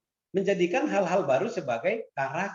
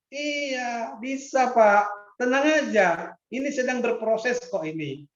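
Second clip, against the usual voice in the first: lightly raised, eager student voice reassuring the lecturer; playful student reply; 3 semitones higher than usual. Pretend. Student brushing off the teacher's doubt, lightly higher and eager. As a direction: play a student saying don't worry, sir.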